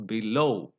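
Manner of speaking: below with weak be, weight on LOW; stress on the root. Shown as a demonstration. Teacher explains the weak prefix, below stressed on LOW. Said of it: "stress goes on the root".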